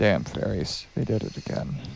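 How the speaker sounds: low, slow grumbling mutter under the breath. Speaking in character about the fairies: muttering under breath. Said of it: "Mutter under my breath".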